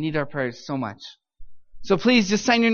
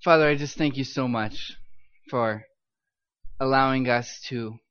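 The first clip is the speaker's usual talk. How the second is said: low, unhurried spoken prayer; 4 semitones lower, 4 dB quieter than usual. Real, not acted. Preacher thanking Father God to close, reverent prayer. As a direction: give thanks to God, pausing between phrases.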